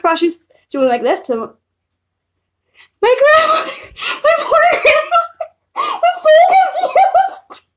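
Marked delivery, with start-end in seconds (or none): 3.0-7.7 very high squeal through laughter; helpless laughter. Real, not acted. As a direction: wail it out while cracking up. Helpless laughter at grandmother's confusion.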